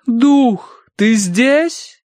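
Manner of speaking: high, loud call to a spirit; вопрошающий медиум. A narrator's reading. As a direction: summon the spirit with a question. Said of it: "вопросила мадам". (высоко, вопрошая духа)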